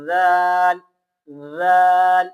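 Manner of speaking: زال said softly with tongue tip between teeth; soft zaal demo. Shown as a demonstration. Teacher showing students the soft زال. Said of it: "زال کو نرم پڑھنا ہے".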